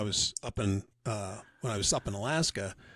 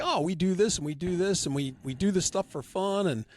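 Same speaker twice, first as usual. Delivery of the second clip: eager club president; 5 semitones higher than usual. Retold or imitated. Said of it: "And then he was like".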